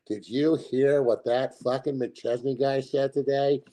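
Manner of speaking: mock Boulder fan. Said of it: "be like".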